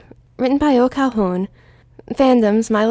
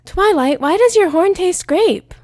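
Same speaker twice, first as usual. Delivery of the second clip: laughing Rainbow; 8 semitones higher, 6 dB louder, slower than usual. Acted. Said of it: "Rainbow laughed".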